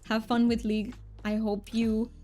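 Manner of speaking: a thick, hammed-up Romanian accent, played for fun; mock Romanian accent. Streamer chats with viewers in a mock thick Romanian accent. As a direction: streamer puts on a joke Romanian accent for chat. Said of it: "But I will be talking in this".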